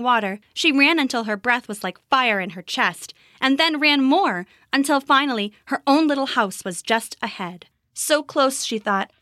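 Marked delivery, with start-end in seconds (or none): none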